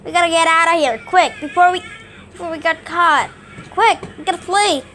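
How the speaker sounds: Lampent voice. Shown as a demonstration. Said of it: "Lampent sounds like this".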